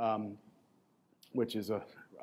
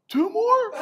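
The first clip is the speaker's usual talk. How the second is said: mock coach question; 4 dB louder than usual. Coach asks after ten reps.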